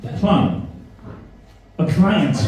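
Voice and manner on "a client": mock posh accent, higher on client. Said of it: "You're too posh for me".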